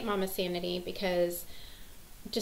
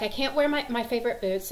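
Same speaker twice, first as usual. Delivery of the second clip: higher, louder mock distress; lightly acted child's fretting; freaking out; 4 semitones higher, 4 dB louder than usual. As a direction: imitate an upset child complaining. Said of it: "she's freaking out".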